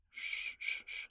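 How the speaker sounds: soft unvoiced shushing; calm them with a hush. Soothing a frightened listener.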